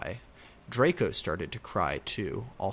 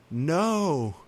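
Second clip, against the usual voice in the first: shouted; 6 semitones higher, 4 dB louder than usual. A narrator's reading. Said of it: "he shouted".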